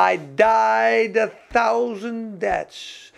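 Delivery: slow, stretched imitation of the preacher; lightly voiced, each word drawn out; "died" held long and falling, slow and solemn. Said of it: "Maar ze zei".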